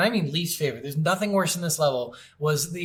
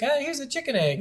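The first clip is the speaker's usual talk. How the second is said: goofy game character; 8 semitones higher than usual. Pretend.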